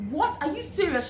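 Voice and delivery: high startled question; astonished disbelief. Retold or imitated. New hire hearing the offer from the director, astonished. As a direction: gasp it out in shock. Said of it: "I was like".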